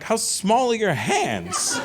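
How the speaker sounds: slow, high, laughing roast. Retold or imitated. Comic roasting a guest, laughing slow and high. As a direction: tease the tiny hands through laughter.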